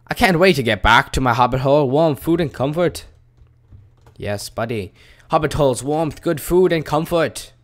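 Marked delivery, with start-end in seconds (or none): 0.1-3.1 lively, louder hobbit voice; hobbit character. Acted. Voicing hobbit character's dialogue. 5.3-7.5 a lightly voiced hobbit, pitched up; hobbit character. Voicing hobbit character's dialogue.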